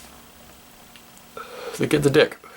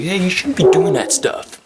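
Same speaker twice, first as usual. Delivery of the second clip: mock kid scolding; 8 semitones higher, 4 dB louder than usual. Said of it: "the two dudes are like".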